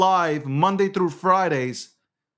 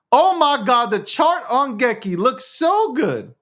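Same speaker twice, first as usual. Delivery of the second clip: higher, louder burst of excitement; excited reaction; 4 semitones higher, 3 dB louder than usual. Real, not acted. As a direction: exclaim in amazement at the chart. Streamer reacts to chart.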